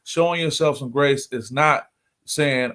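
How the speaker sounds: slow, stress on not; slow and pointed; emphasized. Shown as a demonstration. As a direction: lean hard on the word not. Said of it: "I gotta emphasize that point".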